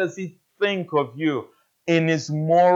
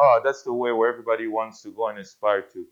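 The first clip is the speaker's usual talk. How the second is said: admiring; 6 semitones lower, 4 dB quieter, much faster than usual. Retold or imitated. People voiced admiring Nineveh.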